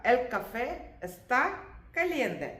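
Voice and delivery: el café está caliente drawn out slowly; slow model read. Shown as a demonstration. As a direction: say it slowly so they can copy. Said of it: "Es-, ആ". (പഠിക്കാൻ പതുക്കെ പറയുന്ന ശൈലി)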